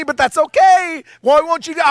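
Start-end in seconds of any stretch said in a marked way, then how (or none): 1.2-1.8 mother yelling at her son to act; Jewish mama shout. Retold or imitated. Mom nagging son.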